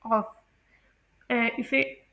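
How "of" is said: ऑफ with a final v sound; correct pronunciation. Shown as a demonstration. Teacher repeats 'of' for students, correct pronunciation. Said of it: "इसमें वी की sound निकलती है".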